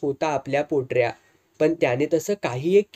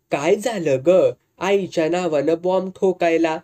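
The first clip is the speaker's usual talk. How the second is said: mildly irritated scolding. Acted. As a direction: scold the girl for the fuss, understated. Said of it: "Dwarkabai चिडली".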